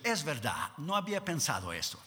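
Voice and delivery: low, soft, thoughtful concession; acted pondering, softly and in short phrases; God reconsidering. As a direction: concede quietly, as if just realizing. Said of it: "Y Dios paró y pensó".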